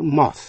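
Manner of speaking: "moth" with an open "aw" vowel; rounded "aw" in "moth". Shown as a demonstration. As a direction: say "moth" as MAWTH. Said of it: "Cũng phát âm O".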